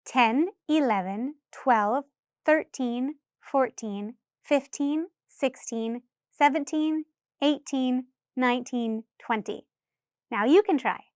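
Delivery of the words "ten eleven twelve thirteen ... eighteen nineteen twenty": numbers run together with no pauses between; faster counting. Shown as a demonstration. Teacher demonstrating a quicker count for students. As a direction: count through quickly, one number after another. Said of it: "let's try that a little faster".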